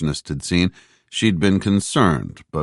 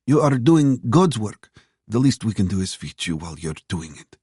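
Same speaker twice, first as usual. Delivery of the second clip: waitress; 6 semitones higher than usual. A narrator's reading. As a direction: speak as the grateful older waitress. Waitress voiced in narrated dialogue.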